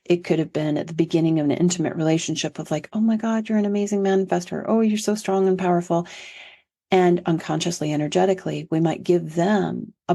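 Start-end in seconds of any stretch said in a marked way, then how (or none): 2.9-6.1 lightly mimicked gushing praise, pitched a little up; gushing admiration. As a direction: play a mildly starry-eyed new partner. Voices an admiring new partner.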